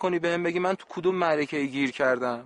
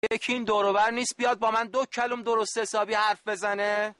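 raised voice; 5 semitones higher than usual. Acted. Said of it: "داد نزن".

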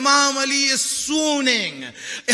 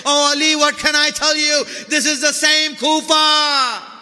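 raised, impassioned cry of grief; anguished lament. Acted. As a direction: wail the words out as a mourning preacher. Lament peaks over daughter's future suffering.

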